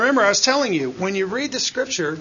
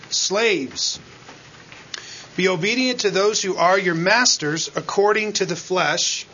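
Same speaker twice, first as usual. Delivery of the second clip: measured, solemn reading of scripture; lightly heightened Bible reading. Acted. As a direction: read the verses out to the congregation. Reads scripture aloud.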